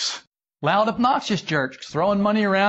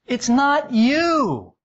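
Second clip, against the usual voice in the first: high gushing voice; 9 semitones higher, much slower than usual. Shown as a demonstration. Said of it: "lying eyes saying it could be".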